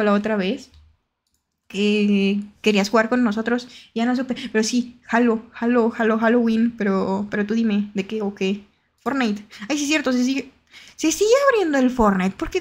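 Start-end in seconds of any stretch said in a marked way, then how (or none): none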